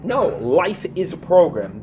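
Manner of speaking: loud, slow insistence on NO; forceful correction, slow and loud; emphatic shout. Real, not acted. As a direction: hammer home that life is a program. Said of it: "I'm emphasizing this so strongly".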